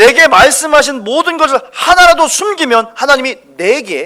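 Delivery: slightly angry tone.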